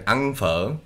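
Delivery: "ăn phở" as slow ang fuh, tones swooping; Southern Vietnamese. Shown as a demonstration. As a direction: model "ăn phở" slowly with its tones. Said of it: "ultimate Southern Vietnamese accent".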